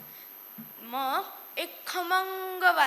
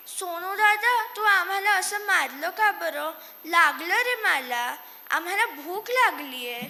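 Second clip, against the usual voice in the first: whiny complaint; 3 semitones higher, 5 dB louder than usual. Acted. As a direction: complain that it hurt. Mice complain after being slapped. (रडवेल्या सुरात तक्रार)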